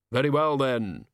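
slow, deliberate solemn figure; slow heavy voice. Acted. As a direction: weigh each word heavily. Hooded figure talking.

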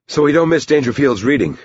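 high-pitched, slightly winded urging; puffing. A narrator's reading. Teacher urges them indoors, puffing after striding up. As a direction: push it out as if a bit puffed. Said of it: "he puffed".

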